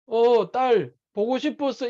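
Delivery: unhurried, gently spoken; a lightly voiced father, slow and tender. The father's avatar greets his daughter, slow and tender. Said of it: "이래 보니까".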